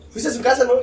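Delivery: imitating mom. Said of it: "Y me dice".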